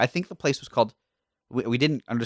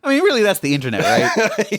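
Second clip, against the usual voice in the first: laughing; 11 semitones higher, 6 dB louder than usual. Real, not acted. Laughing joke.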